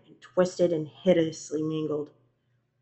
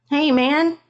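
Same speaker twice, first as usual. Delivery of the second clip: raised, higher voice; roommate calling out; 8 semitones higher, 8 dB louder than usual. A narrator's reading. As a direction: call through a closed door. Roommate calls through bathroom door.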